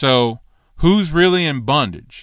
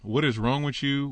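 softer, flat-out aside to himself; dry aside; 3 semitones higher, 5 dB quieter than usual. Real, not acted. Preacher muttering about the teacher's claim, soft dry aside. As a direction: say it under your breath, shaking your head. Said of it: "Son, you need to get some help".

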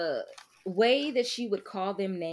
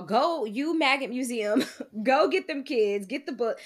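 witch voice; 4 semitones higher, 6 dB louder than usual. Retold or imitated. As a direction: bark at the zombie like a witch. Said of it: "Winnie's all".

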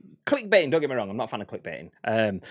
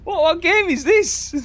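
high, slow, laughing question; cracking up while asking; laughing disbelief; 9 dB louder, slower than usual. Real, not acted. Laughing at a clip.

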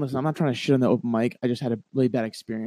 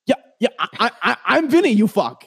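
laughing exasperation; 8 semitones higher, 5 dB louder than usual. Retold or imitated. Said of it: "I'm like".

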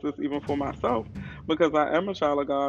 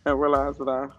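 muffled through a face mask; talking through a mask. Real, not acted. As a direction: speak muffled behind a mask. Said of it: "I have to have a mask on my face".

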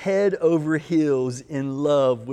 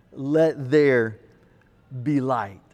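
lower, lingering on each word; slow, drawn out for the congregation; 4 semitones lower, slower than usual. Acted. Preacher leading the congregation, slow call and response. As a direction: leave room for them to join in. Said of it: "finish the next statement with me".

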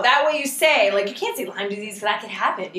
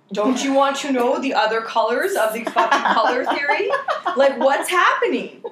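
laughing, pitched-up plea; 5 semitones higher than usual. Retold or imitated. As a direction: laugh through the complaint.

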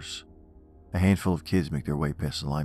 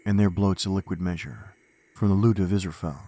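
poem recitation. Acted. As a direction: recite it with dark gravity.

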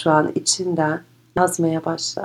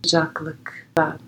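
guided meditation; 4 dB quieter than usual. Acted. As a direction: guide them gently inward.

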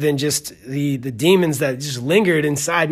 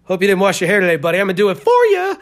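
mock bully taunt; faster than usual. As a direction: taunt him like a schoolyard bully. Acting out a bully taunting Harris.

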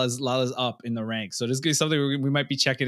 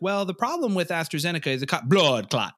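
mock Jamaican accent; 5 semitones higher than usual. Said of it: "it'd be like".

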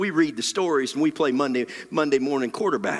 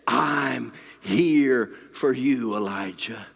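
gentle voice; 3 semitones lower, slower than usual. Acted. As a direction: reassure slowly, as a mild imitation of a gentle voice. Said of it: "A gentle whisper".

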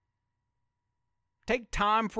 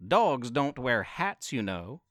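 streetwise alley cat; 5 semitones lower than usual. Acted. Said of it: "The cat replied".

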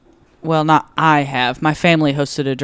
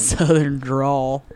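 southern drawl; 4 semitones lower, 5 dB quieter, much slower than usual. Pretend. Echoing drawl in a drawl.

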